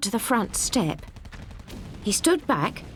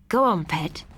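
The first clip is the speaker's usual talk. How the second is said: gentle; 3 semitones lower than usual. A narrator's reading. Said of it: "he said in a gentle voice".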